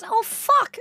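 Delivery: high-pitched mock dismay; dismayed cousin. Cousin learning they may have listened, high and mortified. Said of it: "she goes".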